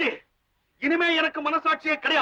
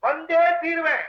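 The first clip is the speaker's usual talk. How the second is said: defiant vow; 2 semitones higher, slower than usual. Acted. Man insists on going, defiant.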